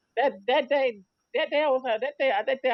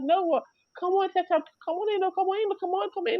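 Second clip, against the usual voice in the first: higher, coaxing come on in; imitating her coaxing; 8 semitones higher than usual. Relative urging the angry guest to come inside, higher coaxing voice. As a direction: coax her back inside, pitched well up. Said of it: "She thought, but she thought".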